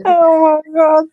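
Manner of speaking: helpless with laughter; real laughter, loud; crying with laughter. Real, not acted. Cracking up at the accent.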